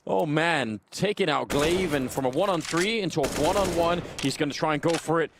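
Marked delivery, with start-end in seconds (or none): 1.5-5.3 esports caster. Acted. Live play-by-play casting.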